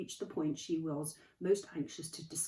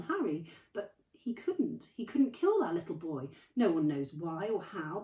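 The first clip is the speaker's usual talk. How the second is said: trembling; 5 semitones higher, 6 dB louder than usual. A narrator's reading. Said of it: "voice trembled as she went on".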